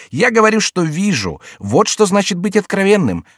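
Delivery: high, declaimed self-justification; mock righteousness. A narrator's reading. Jester defending his frankness to the king, high and theatrical. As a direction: declaim it as wronged honesty.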